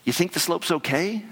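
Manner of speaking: calling out high over the wind; mock yell to be heard; retold yell. Partner shouting over wind, mild mock yell. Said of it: "he screams at me".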